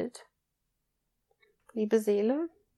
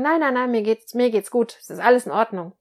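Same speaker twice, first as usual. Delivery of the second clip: louder, tense insistence that all is fine; irritated protest that nothing is wrong; angry denial; 5 dB louder, faster than usual. Shown as a demonstration. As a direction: deny the anger while sounding angry. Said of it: "ihr merkt schon alleine an meinem Tonfall".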